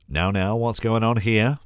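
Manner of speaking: a kindly grandma bustling in worried; concerned granny. A narrator's reading. Grandma coming from the kitchen, lightly voiced concern. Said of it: "Mama inquires concerningly".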